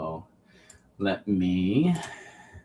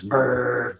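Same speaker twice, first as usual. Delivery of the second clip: mock engine brr; 2 semitones higher than usual. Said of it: "or Aqua Dozer goes".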